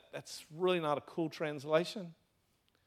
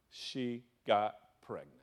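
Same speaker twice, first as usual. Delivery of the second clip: slow hushed whisper; whispered reveal; 5 semitones lower, slower than usual. Acted. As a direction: let it drop as a secret.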